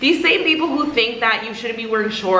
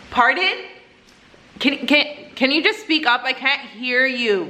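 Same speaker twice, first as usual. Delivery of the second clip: acted pointed request; 2 semitones higher than usual. Customer to mumbling cashier, pointed mock request. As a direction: act out asking a mumbler to speak up.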